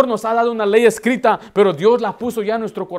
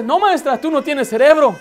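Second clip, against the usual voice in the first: put-on lightly higher childlike voice; little girl voice; 6 semitones higher, 3 dB louder than usual. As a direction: play a blunt little girl. (voz de niña franca, algo más aguda)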